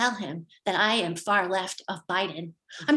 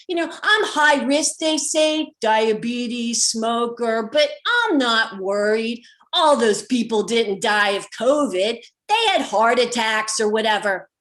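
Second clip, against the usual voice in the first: loud, slow boast over the wind; talking loudly; 5 dB louder than usual. Retold or imitated. Tow driver shouting over the open windows, loud. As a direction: project over rushing air from open windows. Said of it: "he's talking really loudly to be heard over the air".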